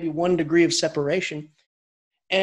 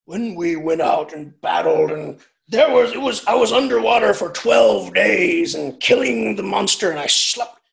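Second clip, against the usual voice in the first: mock epic hero; 3 dB louder than usual. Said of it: "and it's just".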